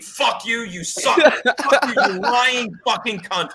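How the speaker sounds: mock scream at the TV, building; retold screaming. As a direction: re-enact a ranting yell, slowing on the last insult. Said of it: "I'm screaming".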